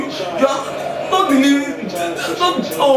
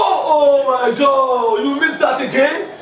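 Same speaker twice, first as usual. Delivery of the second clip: exasperated cry; 3 semitones higher, slower than usual. Real, not acted. Husband reacting to a missed chance.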